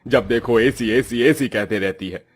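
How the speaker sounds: fed-up father telling off his daughter; cross, emphatic reprimand; irritated scolding. Acted. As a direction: scold with rising exasperation. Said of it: "गरीबी से झुंझलाया सत्यकाम अपनी दूसरी बेटी भारती को डांट लगाते हुए बोला".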